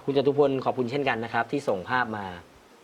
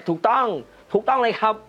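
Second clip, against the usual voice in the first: excited agreement; 9 semitones higher, 6 dB louder than usual. Real, not acted. Host agrees with a viewer.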